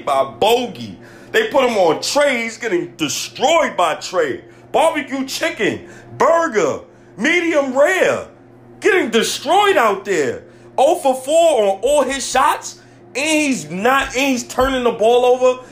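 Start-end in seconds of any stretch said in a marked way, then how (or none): 4.7-15.6 high-pitched, worked-up fan venting; angry rant. Real, not acted. Fan railing at a player getting destroyed, angry rant. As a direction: pile on the complaints, voice pitched up. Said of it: "if I'm screaming on this".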